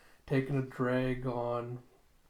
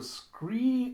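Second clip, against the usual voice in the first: screeching halt; 11 semitones higher, 4 dB louder than usual. Acted.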